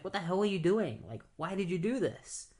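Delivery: mock-furious hero demanding answers; angry Diana. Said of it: "she gets really mad".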